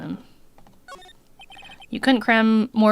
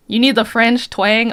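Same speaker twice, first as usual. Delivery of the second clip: louder, slow French twang; French accent; 4 semitones higher, 7 dB louder, slower than usual. Acted. Streamer trying a French accent on the bellboy. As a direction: lean into a hammed-up French accent. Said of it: "I'll give him French accent".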